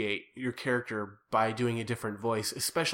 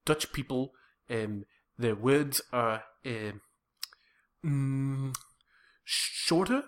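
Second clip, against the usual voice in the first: South African accent. Shown as a demonstration. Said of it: "the South African accent is very Dutch".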